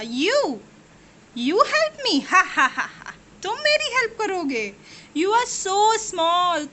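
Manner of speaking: high, mocking laughter from the lion; the lion laughs at the mouse's offer; laughing lion. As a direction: scoff through laughter at the tiny mouse. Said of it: "made the lion roar with laughter".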